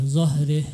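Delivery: zahrih with the ending slackened to REH; blurred vowel. Shown as a demonstration. Judge echoing what was heard, zahrih ending as REH. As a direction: imitate the slip, zahrih sounding like zahreh. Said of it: "Terdengar seperti".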